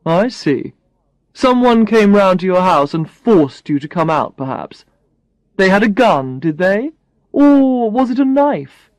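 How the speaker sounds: lightly voiced mock interrogation; a dry joking boss, barely put on; teasing boss. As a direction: boss jokingly quizzing his assistant. Brad jokes with Alex.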